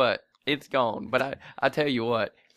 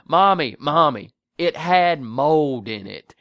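put-on pleading kid; 8 dB louder, slower than usual.

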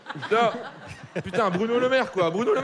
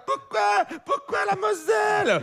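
put-on high, slow wailing child voice; a plaintive child's cry, pitched way up; whiny abandoned kid; 11 semitones higher, slower than usual. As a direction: wail it like a lost little kid.

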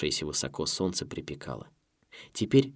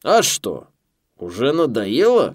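loud, higher, slow teasing; grunting mocking boss; 5 semitones higher, 10 dB louder, slower than usual. A narrator's reading. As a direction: tease him with a grunt. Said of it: "хрюкнул Зиглер".

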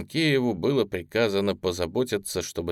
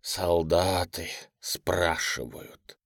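mock mournful echo; 4 semitones lower, much slower than usual. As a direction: repeat it with a theatrical sigh. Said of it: "демонстративно тяжело, скорбно вздохнул".

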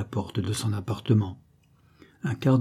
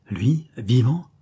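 exclaiming; slower than usual. Acted. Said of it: "s'écria le bâtard".

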